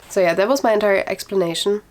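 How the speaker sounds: slightly winded, rushing the words; out of breath. Real, not acted. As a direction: talk like you've run out of air. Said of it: "I'm already out of breath".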